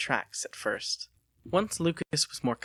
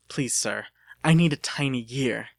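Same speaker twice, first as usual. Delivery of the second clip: mild panic; 5 dB louder than usual. Acted. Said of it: "he said in a panic".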